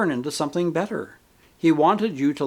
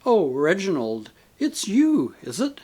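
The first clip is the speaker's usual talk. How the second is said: disappointed; 4 semitones higher than usual. Acted. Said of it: "in a tone of unconcealed disappointment".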